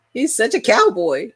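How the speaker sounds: light West Virginia twang imitation; a hint of West Virginia cowboy accent; imitating West Virginia accent. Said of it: "this is the way he says it".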